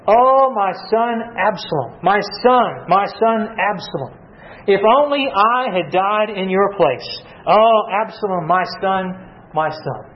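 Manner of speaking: slow, lightly mournful cry of a father; grieving lament. Retold or imitated. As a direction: let the lament stretch out, a touch of grief. David weeping over his son.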